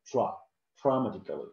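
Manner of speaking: "drah" alone first, then the whole "dramatically"; correct pronunciation. Shown as a demonstration. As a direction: isolate "Dra-", then say "dramatically". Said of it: "This is how we pronounce it".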